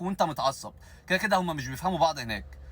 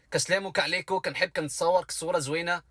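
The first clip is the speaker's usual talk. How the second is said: mock Moroccan accent; 4 semitones higher than usual. Shown as a demonstration. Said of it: "قبل أي كلمة حط حرف الكاف".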